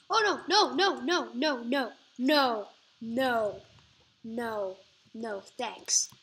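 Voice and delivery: loud frantic repeated no; shouting no over and over in panic; panicking as the player is hit; panicked no no. Real, not acted. Panicked while being attacked.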